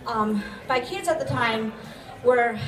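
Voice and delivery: breathless, winded after climbing stairs; out of breath. Real, not acted. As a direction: speak out of breath, short of air. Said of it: "sorry, I'm out of breath".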